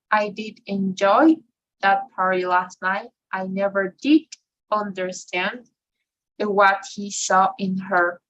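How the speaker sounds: auxiliaries and key words leaned on; emphatic stress. Shown as a demonstration. Teacher demonstrating emphasis to students, stressed. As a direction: stress each helper verb like you mean it. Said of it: "another use of, of the emphasis".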